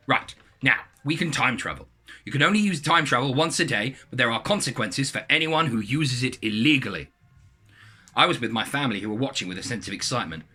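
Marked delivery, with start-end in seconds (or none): 0.1-7.1 British voice. Acted. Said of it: "He said in his British voice".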